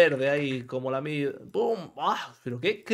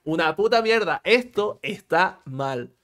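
blunt telling-off; 2 semitones higher, 5 dB louder, slower than usual. Real, not acted. Scolding bad practice.

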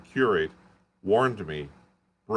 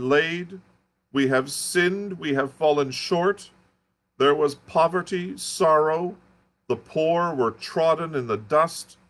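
frantic curate; 6 semitones higher, 4 dB louder than usual. Acted. Curate's raving confession.

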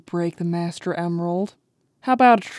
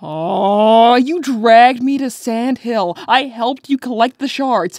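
rising, louder complaint; whiny protest; 4 dB louder than usual. Acted. Rouge complaining to Knuckles about the goodbye, whining. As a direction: plead that it isn't fair.

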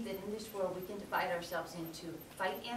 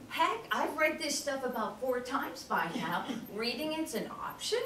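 laughing disbelief; 4 semitones higher than usual. Retold or imitated. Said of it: "'cause I'm thinking".

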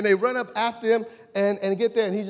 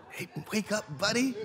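quiet, gentle wake-up call; soft nudge; 8 dB quieter than usual. Acted. Jesus gently waking a sleeping disciple, hushed. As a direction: coax him awake softly.

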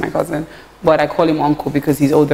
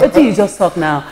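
laughing Pidgin quote. Retold or imitated. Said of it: "Ife will say".

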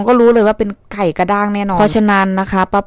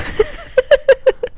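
high laugh. Real, not acted. Laughs at doctor scaring her.

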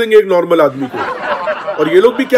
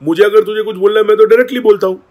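retold firm reply; 5 semitones higher, faster than usual. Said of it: "Siddharth ने बोला".

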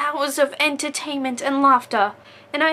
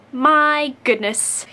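slow My goodness, louder, falling; exasperated fondness; 4 dB louder, much slower than usual. Real, not acted. Teasing a dear friend, slow and fond. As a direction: savour "My goodness" in fond disbelief. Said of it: "You Disney character".

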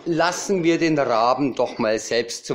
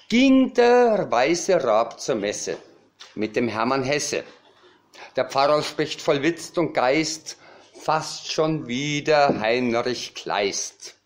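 raised opening, then measured verse; comic poem recital. Acted. Cabaret poet tells of the raven at Mass, comic poem recital. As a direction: declaim the rhymes with deliberate pauses.

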